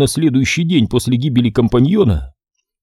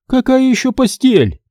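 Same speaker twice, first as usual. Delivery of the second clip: визг, голос резко выше; возмущённо взвизгни; взвизгнула; 12 semitones higher than usual. Acted. Женщина возмущена. (женщина взвизгивает на мастера, голос сильно выше)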